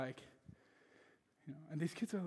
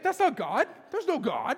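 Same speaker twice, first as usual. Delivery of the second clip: laughing denial; 9 semitones higher, 7 dB louder than usual. Retold or imitated.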